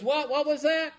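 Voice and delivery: mock-deaf husband squawking the question; deaf old man. Deaf husband shouting back at his wife, high and strained.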